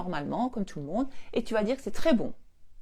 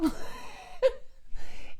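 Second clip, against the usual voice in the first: airy high giggle; high breathy laugh; 14 semitones higher, 3 dB quieter than usual. Real, not acted. Mother laughing after her son says it was good. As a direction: giggle with satisfaction.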